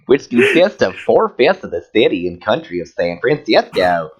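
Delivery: campy Southern reading voice; lilting hammed-up Southern accent; put-on Southern accent. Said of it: "keep reading that voice".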